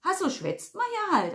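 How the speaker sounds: high-pitched Swabian retort; Swabian dialect. A narrator's reading. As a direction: explain it as obvious, in Swabian. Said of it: "Was soll schon wieder dieses Schwäbisch". (schwäbisch, mit hoher Stimme)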